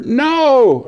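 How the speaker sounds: high, loud no; alarmed shout. Retold or imitated. Chief warns him off the live switch, a high shout. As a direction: yell a warning to stop.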